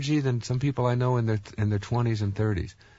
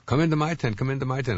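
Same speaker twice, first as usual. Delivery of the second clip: beckoning vendor; 6 semitones higher, faster than usual. Retold or imitated. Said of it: "the woman said".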